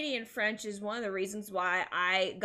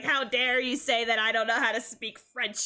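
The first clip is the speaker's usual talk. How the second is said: mock indignant grandma; 4 dB louder than usual. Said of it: "cussing her out in French".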